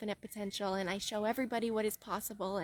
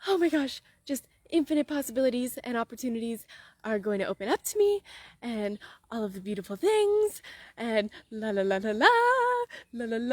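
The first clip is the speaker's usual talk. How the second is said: excited gushing. Shown as a demonstration. Coach modelling the feeling of desire, giddy and singsong. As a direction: let the joy spill into la la la. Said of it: "can you feel the excitement in my voice".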